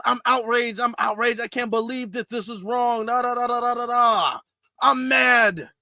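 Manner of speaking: hammed-up fake outrage; mocking outrage. Commentator mocking Democrats' feigned outrage, exaggerated indignation. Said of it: "That's what they're saying".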